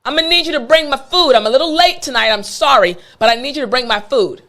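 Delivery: high demanding cat voice; lightly voiced pushy cat demanding its food; voicing the cat. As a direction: play the cat yelling for dinner, laughing. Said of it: "The cat was basically screaming like".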